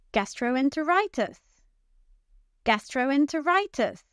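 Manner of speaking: "Gastroenteritis" with RI stressed; stress on fifth syllable. Shown as a demonstration. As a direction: lean on RI in "Gastroenteritis". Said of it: "It's the fifth syllable".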